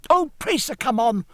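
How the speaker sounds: put-on high, pleading boy's cry; impatient youngster urging someone along; Forshaw. A narrator's reading. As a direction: beg urgently in a child's high voice. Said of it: "cried Forshaw over his shoulder".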